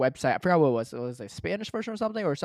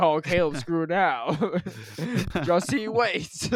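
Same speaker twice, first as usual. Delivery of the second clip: cartoon villain; much slower than usual. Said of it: "You sound like some cartoon villain".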